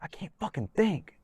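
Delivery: high, strained voice; mock dazed whine; dazed fighter. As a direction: sound overwhelmed and lost. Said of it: "he's like".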